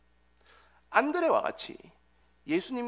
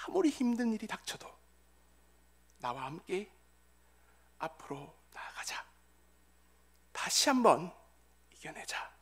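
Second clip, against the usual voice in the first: God's encouragement. Acted. God urging a beloved son onward, gentle hushed encouragement. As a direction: encourage gently, phrase by phrase, falling to a hush. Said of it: "하나님께서는 응답해 주십니다".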